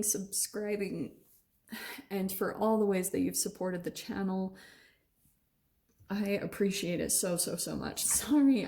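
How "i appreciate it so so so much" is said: words broken by hiccups; hiccuping. Real, not acted. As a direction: hiccup mid-sentence while thanking. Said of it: "I keep hiccuping".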